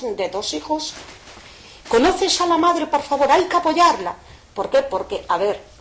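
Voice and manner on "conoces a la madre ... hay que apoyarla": higher, louder crying plea; tearful pleading. Retold or imitated. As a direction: plead through tears for the mother. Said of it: "pero abrazada a mí, pero llorando". (súplica llorando, aguda y fuerte)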